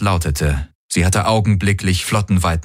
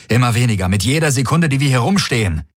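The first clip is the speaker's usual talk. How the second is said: urgent pressing; 6 semitones higher, faster than usual. Acted. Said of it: "drängte Galen".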